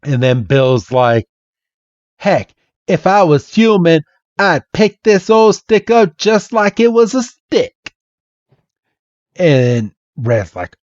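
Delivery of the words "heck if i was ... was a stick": put-on higher-pitched Southern accent; hammed-up Southern country fella; Bill. Bill moaning about not being human, Southern accent. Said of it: "this Southern accent".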